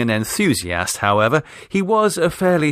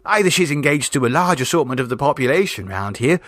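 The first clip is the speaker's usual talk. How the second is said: high, breathless storytelling niece; imaginative girl; 4 semitones higher than usual. Acted. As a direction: spin the tale with relish. Vera continues tale.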